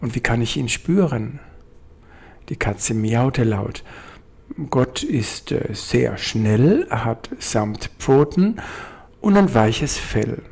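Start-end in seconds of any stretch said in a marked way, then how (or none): 0.0-1.4 a small bird asking politely and keenly; curious little bird. Acted. Bird voice in story. 4.7-10.4 a hint of a lazy cat, slow in places; unhurried cat, drawn out on some words; lightly voiced cat. Cat answers the bird.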